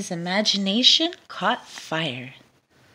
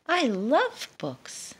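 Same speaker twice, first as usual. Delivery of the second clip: high, slow, dreamy little voice; mouse voice; 6 semitones higher, slower than usual. Acted. Mouse telling the dragon, slow and high. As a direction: savor it like a book lover.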